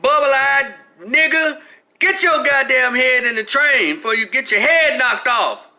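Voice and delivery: high, slow, shouted insult at a man on a train; mock angry yell. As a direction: bark it out as a mock enraged stranger. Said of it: "And then the white guy said".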